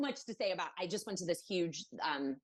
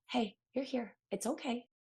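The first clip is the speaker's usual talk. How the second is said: lightly voiced kind welcome, higher pitch; reassuring; 5 semitones higher than usual. Evaluators greeting a worried parent, gently reassuring. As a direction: soothe with a pitched-up hello.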